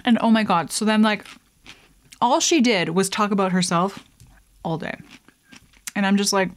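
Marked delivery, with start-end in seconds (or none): 0.1-5.0 put-on cute girl talking with full mouth. Shown as a demonstration. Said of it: "chicks are trying to be cute".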